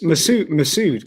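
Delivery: "Masood" drawn out slowly and loudly; correcting pronunciation. Shown as a demonstration. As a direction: spell out "Masood" by ear, stretched and emphatic. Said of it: "pronounced his name".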